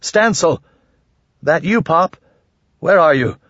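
high, panicked call into the dark; panicked shout. Acted. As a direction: shout the name, almost in panic. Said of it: "Almost in panic, he shouted".

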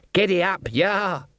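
high, sharp driver's cry; urging horses on. A narrator's reading. Driver breaking off to the horses, high urging call. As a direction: cry out to spur the team.

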